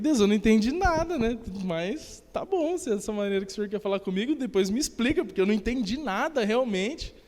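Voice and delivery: half-laughing I-don't-get-it outburst; bewildered prayer. Retold or imitated.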